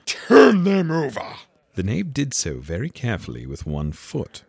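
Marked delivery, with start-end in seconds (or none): 0.1-1.4 high, loud, slow order; angry command. A narrator's reading. Queen orders the knave about, angrily. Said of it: "The Queen turned angrily away".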